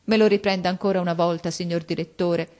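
mother sobbing before the headmaster; bursting into sobs. A narrator's reading. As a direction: break down crying as you beg. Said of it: "diede in uno scoppio di pianto".

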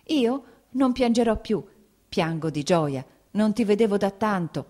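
mother promising through tears; mother reassures son while crying; swallowing tears. A narrator's reading. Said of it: "inghiottendo le lacrime".

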